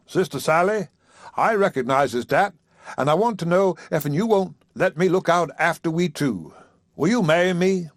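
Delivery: lightly voiced preacher, rising with hope; a hint of a nervous suitor; proposing preacher. Haywood proposing.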